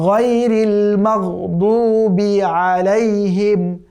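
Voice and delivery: drawn-out tajweed chanting; slow Quran recitation. Shown as a demonstration. Teacher reciting the verse for students, slow chant. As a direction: recite each word slowly and carefully.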